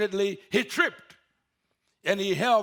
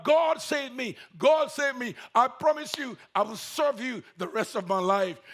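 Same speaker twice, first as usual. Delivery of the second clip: crying out; 2 semitones higher than usual. Acted. Man hanging from a cliff begs God, crying out. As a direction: beg God to save you. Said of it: "He started crying out".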